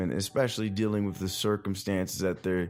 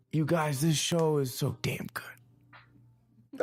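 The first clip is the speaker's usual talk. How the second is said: high, hushed whisper of awe; awed whisper; 6 semitones higher, much slower than usual. Real, not acted. Whispering to listeners how good the show is, awed. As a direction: breathe it out like a secret you can't contain.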